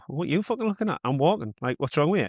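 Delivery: a touch of cheeky, high-pitched bird; imagined indignant pigeon. Acted. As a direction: answer back like an affronted pigeon. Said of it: "It might just look at you and go".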